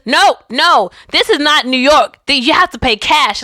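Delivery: badly faked New Jersey accent, firm refusal; awful New Jersey accent. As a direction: do an amateur New Jersey driver turning someone away. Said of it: "my awful New Jersey accent".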